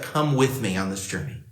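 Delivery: gentle invitation. Acted. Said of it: "but he's like".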